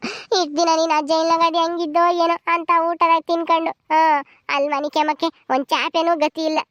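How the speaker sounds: acted tearful keening on a level pitch; weepy lament. Wife recalling her worry over jailed husband, tearfully. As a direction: wail out the worry, word after word. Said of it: "ಅದಕ್ಕೆ ಯಾಕೆ ಅಳ್ತಾ ಇದ್ದೀರಾ?".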